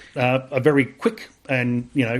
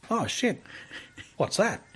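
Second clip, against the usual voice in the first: high, breathy-free gasp of disbelief, softer; stunned surprise; 7 semitones higher, 7 dB quieter, slower than usual. Retold or imitated. Reading the medal letter, stunned surprise. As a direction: blurt it out caught off guard.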